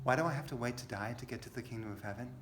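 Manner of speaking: impatient. Retold or imitated. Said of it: "I've often said this".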